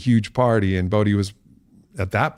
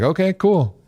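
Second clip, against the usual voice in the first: casual Joe Rogan; 11 semitones higher, 3 dB louder than usual. Retold or imitated. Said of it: "he's like".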